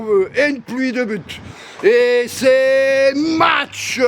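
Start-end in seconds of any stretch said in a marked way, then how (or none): 1.8-4.0 slow stretched hype shout; drawn-out shout. Acted. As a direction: drag it out like an announcer. Hyping the match start.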